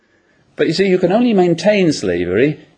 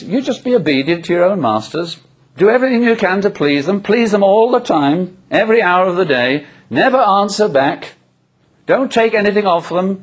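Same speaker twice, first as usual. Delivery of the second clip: exhorting; 6 semitones higher than usual. Acted. Voices the apostle's charge to slaves.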